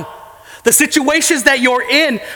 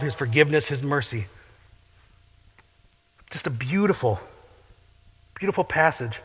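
quiet, reverent closing words; hushed reflection; 6 semitones lower, 6 dB quieter than usual. Acted. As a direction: let it fall to a near-whisper of awe. Softened reflective close.

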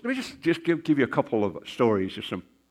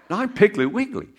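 laughing; 10 semitones higher, 3 dB louder than usual. Retold or imitated. Retold Southern mix-up, laughing.

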